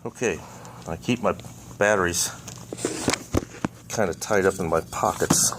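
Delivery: talking with screws held in mouth. Real, not acted. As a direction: speak around screws between your lips. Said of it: "I got two screws in my mouth".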